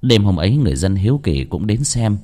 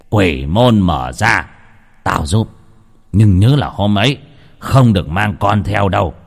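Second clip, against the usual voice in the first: stern voice. Acted. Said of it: "Ông nghiêm giọng".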